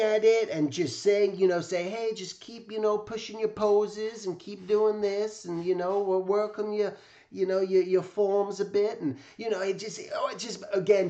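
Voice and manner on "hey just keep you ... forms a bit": lightly raised, kindly mentor voice; a gentle old master giving encouragement; imitating Jack Davis. Narrator imitates Jack Davis giving drawing advice, a light kindly high voice. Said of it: "and it just talked like this".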